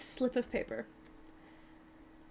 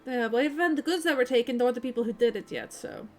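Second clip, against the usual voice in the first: put-on Barovian accent; 4 dB louder than usual. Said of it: "kinda goes".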